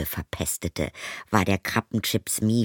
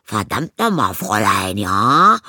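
loud, angry bellow; 9 dB louder than usual. Acted. Stepmother bellows at Zoe in rage. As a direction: roar at the girl. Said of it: "brüllte Sheila".

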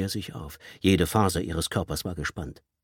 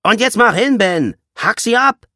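loud, much higher screamed command; furious order; 10 dB louder than usual. Acted. Leader screams at Ben to cut them off. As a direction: scream at him to do it now.

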